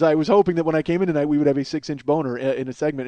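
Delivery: a light imitation of a dry late-night host; David Letterman delivery. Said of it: "he goes".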